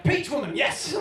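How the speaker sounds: loud delighted exclamation; excited recognition. Retold or imitated. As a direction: cheer it like you've spotted her. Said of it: "you'd be like".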